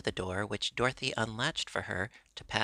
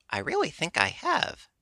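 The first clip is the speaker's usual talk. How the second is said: higher, sharp mock retort; 7 semitones higher, 4 dB louder than usual. A narrator's reading. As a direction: fire it back at Dorothy, a touch proud. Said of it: "retorted Billina".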